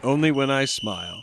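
joking through a laugh; laughing joke. Acted. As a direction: toss it off with a chuckle. Player jokes, laughing.

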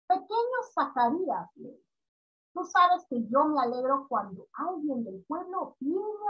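gentle reread of the lake's voice; soft and respectful. Shown as a demonstration. Teacher showing the class how the lake speaks, softly. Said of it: "con la voz muy suave y respetuosa".

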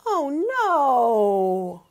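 loud, in a different voice; dismayed oh no. A narrator's reading. Storyteller reacting as the tree falls, dismayed. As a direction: gasp out the worry.

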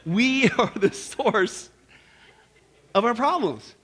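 "We are the source" drawn out with long pauses; slow, deliberate emphasis. Real, not acted. Preacher giving the moral after his joke, slow emphasis. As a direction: land each part slowly, pausing before "of our problems". Slow punch line, later repeated plainly.

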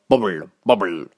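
low croaky witch chant. Acted. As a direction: croon it like a witch over a pot. Witch stirring cauldron.

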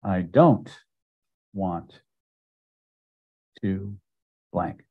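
flat indifference; indifferent. Shown as a demonstration. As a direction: drop all emotion, shrug it off. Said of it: "completely indifferent".

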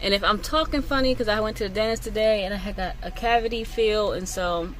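talking with a numb lip. Real, not acted. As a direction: speak like after a dentist visit. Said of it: "my bottom lip is definitely numb".

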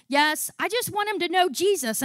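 high, loud and eager; excited reply, re-enacted.

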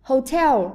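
"Hotel" with stress on the second syllable; light start, strong TEL in "Hotel"; teacher's demo of "Hotel", beat on the last syllable. Shown as a demonstration. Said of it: "có trọng âm rơi vào âm tiết thứ hai".

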